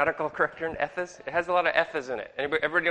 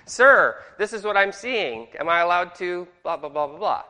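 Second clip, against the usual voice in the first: soldier asking; 3 semitones higher, 4 dB louder than usual. Retold or imitated. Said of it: "You have to ask".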